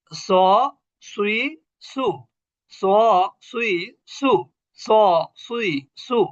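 স সুই সু with a full, rounded s, tongue swelling upward. Shown as a demonstration. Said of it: "জিহ্বা ফুলে গেছে উপরের দিকে".

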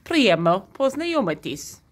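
careful repeat of "Priemno poznayomitis"; repeating the phrase. Shown as a demonstration. Vlogger repeats the phrase for viewers, careful. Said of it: "One more time".

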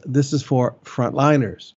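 slow, deliberate stress on "frontliners"; emphatic. Real, not acted. Pastor making clear who it is for, emphatic on "frontliners". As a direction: spell out "frontliners" slowly and firmly. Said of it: "let me emphasize".

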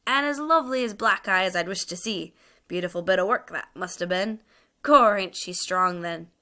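Cockney onlooker relishing the sight; admiring crowd heckler. Acted.

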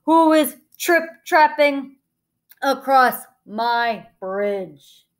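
loud, slow troll demand; menacing troll challenge, drawn out and loud; booming troll. A narrator's reading. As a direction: boom each word out slowly. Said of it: "he demanded in a booming voice".

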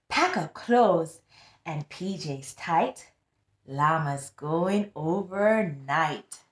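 put-on sing-song read-aloud for kids; storybook reading. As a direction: read it like a bedtime rhyme. Reading picture book aloud.

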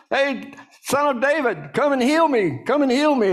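high-pitched imitation of yelling for help; calling out. Blind man calling out to Jesus as he passes, acted yelling. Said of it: "He starts yelling out".

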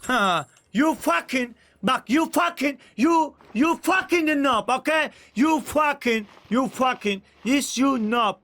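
angry English taunt. Real, not acted. Streamer cursing a noob in broken English, heated taunt. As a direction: hammer each broken-English insult at him.

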